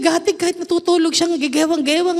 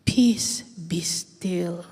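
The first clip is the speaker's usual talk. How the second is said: whispered, fading to a breath; 8 semitones lower, 6 dB quieter, much slower than usual. Shown as a demonstration. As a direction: hush them into stillness. Preacher hushes the congregation. (pabulong na pagpapatahimik)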